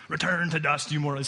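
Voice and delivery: grand British proclamation; lightly put-on British accent. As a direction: declaim it like a British stage wizard. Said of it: "Need a British accent, really, like".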